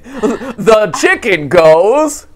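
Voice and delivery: laughing. Acted. Kids' animal sound lesson, laughing.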